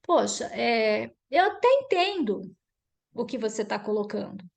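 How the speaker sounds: demonstrated empathetic lead-in, measured pace; understated conciliatory tone; acknowledging, then questioning. Shown as a demonstration. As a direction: acolher first, then ease into the question. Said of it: "primeiro você acolhe".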